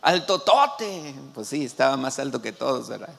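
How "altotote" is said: high, drawn-out cheers; playful whooping exclamations; mock crowd shouting. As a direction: imitate an excited crowd, not at full volume. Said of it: "empezaron a gritar".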